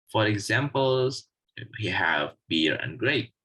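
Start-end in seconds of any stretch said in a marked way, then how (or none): 1.8-3.3 "and" unstressed, only linking; weak form of and. Shown as a demonstration. Teacher giving a weak-form example, "and" left unstressed. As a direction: slip over "and" without stress. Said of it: "does not contain stress at all".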